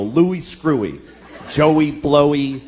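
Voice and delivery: taunting schoolkids. Retold or imitated. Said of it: "they go".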